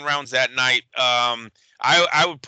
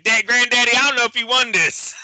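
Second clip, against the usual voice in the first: hammed-up Southern grandkid accent, louder and higher; 8 semitones higher, 4 dB louder than usual. Grandkids doubting grandpa's old fight, mock Southern accent. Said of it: "not a Southern accent".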